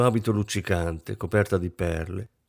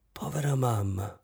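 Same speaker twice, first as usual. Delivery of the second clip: softer, gentle repetition; gently; 5 dB quieter than usual. Acted. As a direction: say it tenderly, softly. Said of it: "dolcemente ripeté".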